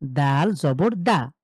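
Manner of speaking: দাল জবর দা spelled out very slowly; drawn-out teacher spelling. Shown as a demonstration. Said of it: "তাহলে দেখেন".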